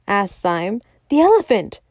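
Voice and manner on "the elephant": high-pitched exclamation; alarmed cry. A narrator's reading. Keeper answering about the runaway elephant, crying out. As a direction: cry it out high, as urgent news. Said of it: "cried the keeper".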